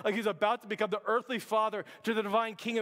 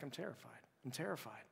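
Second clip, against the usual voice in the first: barely above a whisper, lower and much softer; terrified Mary; 10 semitones lower, 16 dB quieter than usual. Acted. Mary confessing her fear to Joseph, softly and scared. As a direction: breathe it out like a frightened young mother. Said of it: "She's like".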